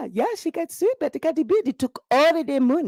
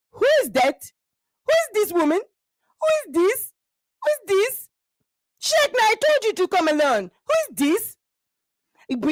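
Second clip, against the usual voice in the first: suspicious mother. Acted. Mother interrogating Shaq about his wife, suspicious. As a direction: grill the stranger. Mother confronting daughter-in-law.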